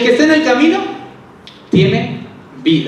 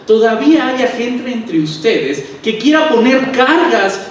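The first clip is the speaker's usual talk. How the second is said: indignant rhetorical protest, pitched up; mildly angry Paul; 5 semitones higher than usual. Acted. Paul scolding churches over burdens on others, mildly angry. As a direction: act out a mildly exasperated apostle. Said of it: "Pablo se enfada mucho porque dice".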